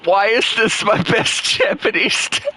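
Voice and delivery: high, incredulous question; can't believe this result; surprised. Real, not acted. Surprised at game stat result.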